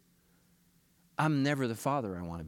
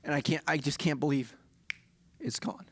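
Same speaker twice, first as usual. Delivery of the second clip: choked up. Real, not acted. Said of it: "this got a little more emotional".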